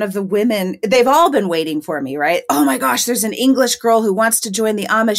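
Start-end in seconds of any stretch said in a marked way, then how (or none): 2.5-5.2 slightly higher, lightly excited gossip; mock excitement. Churchgoers spreading word of an English girl, lightly mock-excited. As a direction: retell the buzz about a newcomer.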